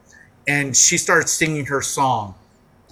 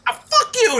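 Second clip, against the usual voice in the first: high-pitched imitation of a tearful singer; lightly acted upset outburst; mock tearful. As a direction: curse them as if giving up in tears. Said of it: "in tears".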